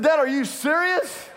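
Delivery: incredulous through a laugh; laughing disbelief. Retold or imitated. Son asking his forgetful dad, laughing disbelief.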